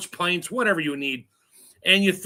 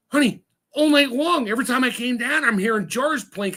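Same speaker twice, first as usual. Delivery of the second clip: higher, mildly fretful wife voice; imitating wife; 6 semitones higher than usual. Host quotes wife complaining about plinking jars, higher voice. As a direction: play the worried wife lightly.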